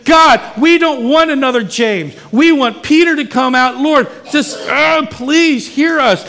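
preacher shouting a prayer for Peter's release; yelling at God. Shown as a demonstration. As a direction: cry out to God with everything. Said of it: "It's okay to yell at God".

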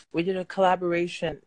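talking around a retainer; slurred by a retainer; wearing a retainer. Real, not acted. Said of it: "I have my retainer in. So I'm talking funny".

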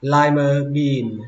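"lima bean" up on "li", down on "ma", slow. Shown as a demonstration. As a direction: stress the start of "lima" and drop after. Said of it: "Lên giọng âm đầu tiên".

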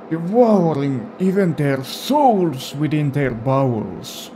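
Grandpa voice. Pretend. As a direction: tell the grim tale as grandpa. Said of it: "given this guy this voice".

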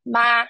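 ma on a high level pitch; first tone ma. Shown as a demonstration. Teacher showing students the high level tone. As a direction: keep ma high and steady. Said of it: "Ma is a high and level pitch".

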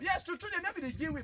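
high-pitched fervent agreement; high exclaim. Real, not acted. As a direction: pile it up with rising fervor. Orator echoing crowd complaint.

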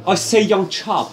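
mock British gentleman; British accent. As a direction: put on a funny British accent. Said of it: "funny British thing".

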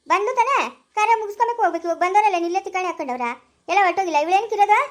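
angry complaint. Acted. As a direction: build to a loud, resentful demand. Household quarrel over the guest.

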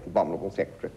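"abominable secretary" pinched and clipped; clipped English. Shown as a demonstration. Mocking posh English speech, clipped. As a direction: snip "secretary" short. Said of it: "English governing accent".

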